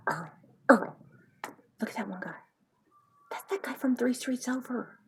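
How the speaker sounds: lightly voiced nosy wife gawking at a wreck; a hint of a busybody wife. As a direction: play a gossiping wife nudging her husband.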